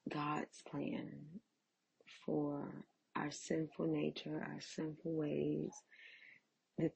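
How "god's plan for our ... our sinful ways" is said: whispered. Real, not acted. Preaching about sin.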